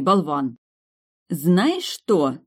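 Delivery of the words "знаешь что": vengeful tone. Acted. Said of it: "сказала я мстительным тоном".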